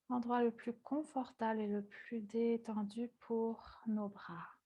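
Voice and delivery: calm, unhurried instruction with long pauses; guided yoga meditation. Real, not acted. Yoga teacher guiding students into breathing, calm meditative voice. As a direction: ease them gently into the breath.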